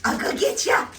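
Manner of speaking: teasing whisper to the dog; playful whisper. Real, not acted. Mom teases her dog before chasing him, playful whisper. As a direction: whisper it like you're about to pounce.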